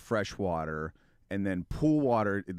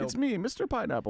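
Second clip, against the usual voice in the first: joke persona; 13 semitones higher than usual. Pretend.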